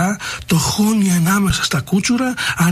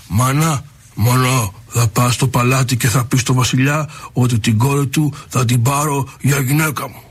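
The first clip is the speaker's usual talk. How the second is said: lion cub voice; 5 semitones lower than usual. Acted. Lion cub asks mother.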